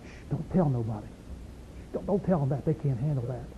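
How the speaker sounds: hushed whisper. Retold or imitated. Preacher mimicking church folk shushing him, whispered. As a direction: shush them like a nervous church elder. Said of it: "I got this all the time".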